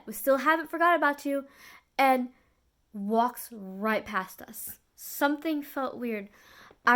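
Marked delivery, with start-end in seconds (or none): 0.0-1.4 a touch louder, lightly mimicked offhand line; doctor repeated. Doctor's line retold mockingly to the viewers, mild emphasis. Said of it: "that's all he said".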